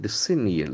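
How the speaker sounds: "Decennial" with the accent on CEN, falling after; second-syllable stress. Shown as a demonstration. Teacher repeating after a recorded model, stress demo. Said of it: "The accent falls from the second syllable".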